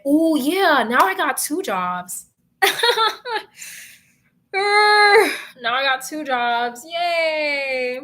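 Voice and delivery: hammed-up laugh-cry, slow; laughing despair over two jobs; mock crying. Real, not acted. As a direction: whine it like a fake sob.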